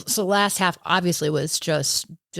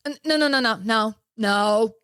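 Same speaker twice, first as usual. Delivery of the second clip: mock pacer; 3 semitones higher than usual. Pacer refuses her stop.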